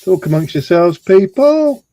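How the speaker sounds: a hammed-up call to the crowd; playful loud call. Calling out to waiting viewers.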